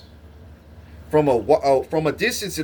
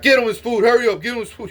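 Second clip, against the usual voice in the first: higher, louder urgent nurse orders; 8 semitones higher, 4 dB louder, faster than usual. Retold or imitated. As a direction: hurry the staff like a panicked nurse. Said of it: "the nurse is like".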